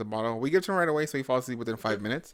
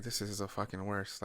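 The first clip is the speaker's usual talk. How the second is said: softer, slower grumble; grumbling low; 2 semitones lower, 10 dB quieter than usual. Retold or imitated. Husband grumbling at night, softer and slowed. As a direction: mutter it half-asleep. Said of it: "And I'm just like".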